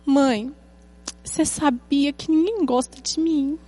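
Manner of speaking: a mildly put-on child's whine, drawn out; slow, hammed-up childish complaint; dramatic little daughter. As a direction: lightly imitate a child being dramatic at bedtime. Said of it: "ela é dramática".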